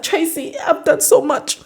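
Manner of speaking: high-pitched, whiny fake weeping; hammed-up crying boyfriend; mock crying. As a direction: plead tearfully in a put-on high voice. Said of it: "Izzy starts crying".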